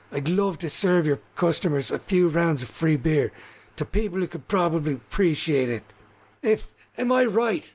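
lightly voiced salesman rousing a crowd; halfling showman. Halfling asking landlord and orcs to take free beer, rousing pitch. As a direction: build to a high, rallying question.

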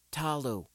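Talu said with a clear Tah-loo, falling; crisp correction of Talu; corrected name. A narrator's reading. Girl correcting the teacher who misread her name, firm. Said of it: "she corrected".

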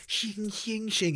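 high imitated blade rings; knife-sharpening noise. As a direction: slide out high metallic strokes with the voice. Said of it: "still sharpening his knife".

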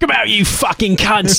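high, slow, hammed-up British yob shout; mock hooligan war cry. Joking about a headbutting charge on the SS, mock yob war cry. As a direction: bellow it like a drunk football lad charging.

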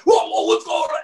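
high, hammed-up alarmed whoa; mock alarm. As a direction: play the startled driver, way up high. Faking car trouble in intersection.

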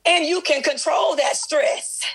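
rising, fervent call-and-response preaching. Acted. Pastor rousing the congregation, full preaching voice. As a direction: preach it out to the church, pressing each phrase.

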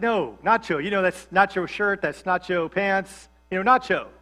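"nacho" standing in for "not your"; southern-style "nacho" with a ch; slurred NACHO. Retold or imitated. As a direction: insist on "nacho", not and your run together. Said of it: "I had a southern drawl".

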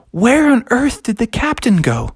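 lightly voiced puzzled kid; Froggy. Boy finding the box empty, puzzled. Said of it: "He's like".

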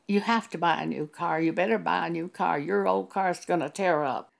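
fast, insistent pushing; pushy voice of devils. Shown as a demonstration. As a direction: rush it like a nagging demand. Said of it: "It wasn't a pushy voice".

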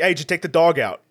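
put-on fast, casual Queens accent; lightly imitated New York bark. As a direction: fire it off in an old Queens accent. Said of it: "my father being from New York".

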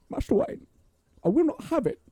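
high, cracked British impression; Michael Caine. Co-host as the butler protesting to his master, high overwrought impression. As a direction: let the British butler's voice leap up tearfully. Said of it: "Michael Caine's a fun one to do".

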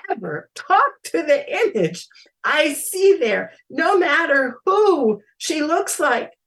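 measured, dramatic story reading; eerie story told with deliberate pauses; story narration. A narrator's reading. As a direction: read a freaky tale deliberately, building to emphasis. Reads own story aloud.

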